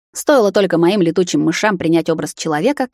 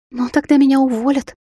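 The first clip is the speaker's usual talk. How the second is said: much higher, wailing cry; bursting into tears; 8 semitones higher than usual. A narrator's reading. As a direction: wail it out in tears. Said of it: "заревела она пуще прежнего".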